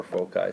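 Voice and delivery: foci said FOH-kai, hard c; hard-c pronunciation. Shown as a demonstration. Teacher offering the alternative term, hard-c pronunciation. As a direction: say foci with a K sound in the middle. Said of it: "some people say foci".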